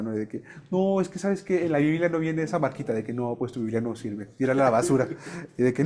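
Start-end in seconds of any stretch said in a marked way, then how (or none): 0.7-5.1 mock-dismissive, voice sinking toward the end; joking teacher. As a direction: imitate a teacher's teasing objection. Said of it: "así de bromeaba".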